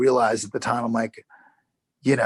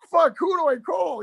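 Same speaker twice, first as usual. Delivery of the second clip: high-pitched mock alarm; retold panic. Actor retelling his search for an accent coach, mock panic. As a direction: play up a helpless freak-out, pitch way up.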